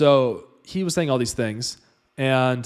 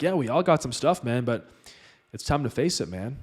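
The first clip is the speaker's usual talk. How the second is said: laid-back guru voice. Retold or imitated. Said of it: "like, literally like that".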